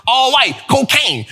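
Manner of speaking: punchline with dropped tag word; mock rapper line through laughter; playful impression of a rapper; old bars from a rapper. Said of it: "talk like that".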